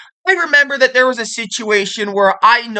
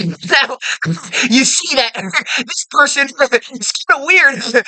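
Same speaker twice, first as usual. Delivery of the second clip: laughing while stressing every word; mock laughing emphasis; 3 semitones higher than usual. Shown as a demonstration. Showing the annoying voice that laughs and stresses. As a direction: giggle and punch each phrase. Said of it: "you combine the two".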